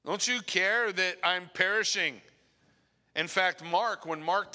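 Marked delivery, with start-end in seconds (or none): 0.0-2.2 desperate cry. Retold or imitated. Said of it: "our desperate cries sound like".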